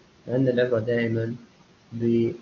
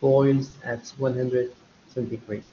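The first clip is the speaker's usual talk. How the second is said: slow dictation; much slower than usual. Shown as a demonstration.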